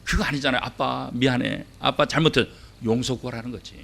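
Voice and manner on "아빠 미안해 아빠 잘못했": put-on child's apology.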